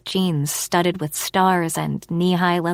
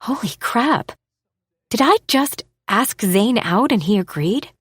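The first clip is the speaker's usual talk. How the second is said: excited disbelief; 4 semitones higher than usual. Acted. Giddy inner reaction to his yes.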